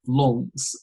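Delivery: "Luntz" drawn out as Launce; "Luntz" pronounced to rhyme with "haunts"; imitated mispronunciation. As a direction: say "Luntz" with a rounded aw. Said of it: "like L A U N C E".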